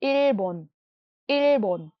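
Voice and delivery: इल्बोन said slowly and clearly for learners; Korean word Ilbon. Shown as a demonstration. Korean teacher modelling Japan's name for students. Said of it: "Japan को कहते हैं इल्बोन".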